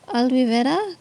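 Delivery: Tex-Mex accent on an unsure name; name read in a Tex-Mex accent. Real, not acted. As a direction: try the name with a Spanish, Tex-Mex sound, questioning. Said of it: "that's my Tex-Mex accent coming out".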